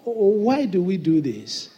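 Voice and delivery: slow, gentle, curious asking; polite question. Shown as a demonstration. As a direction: ask it nicely and patiently. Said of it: "There's a way of".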